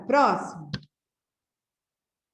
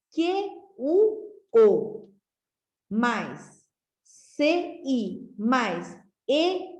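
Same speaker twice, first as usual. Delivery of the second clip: spelled out slowly, each letter set apart; slow letter-by-letter spelling; slower than usual. Shown as a demonstration. Teacher spelling quatro out for pupils, slowly. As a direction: build the word for the class piece by piece. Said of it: "Aqui, ó".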